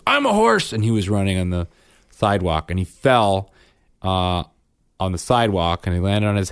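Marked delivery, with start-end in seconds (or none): 0.1-0.7 high-pitched kid's cry, imitated; hammed-up child announcing a game; excited little boy. Son galloping down the sidewalk, excited imitation. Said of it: "And then Bryn goes".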